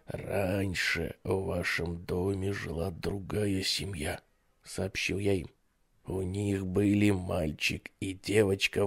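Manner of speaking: soft hush sinking to a whisper; sinister whisper. Acted. Babysitter tells the basement tale, sinister whisper. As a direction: draw them in, ending in a whisper. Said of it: "тем же шёпотом".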